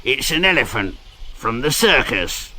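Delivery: chuckling in disbelief as he speaks; a foreman's amused laugh mid-line. Acted. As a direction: laugh through the words, amused. Foreman surprised by elephant.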